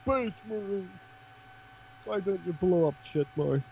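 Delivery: mock heckler. Mocking heckle at Space Marines.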